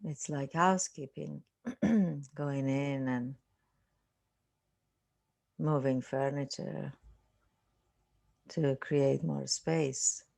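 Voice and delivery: unhurried meditation guide, long silences between phrases; guided meditation. Real, not acted. Teacher settling listeners into a seated meditation, calm guiding voice. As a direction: ease them into stillness, phrase by phrase with long pauses.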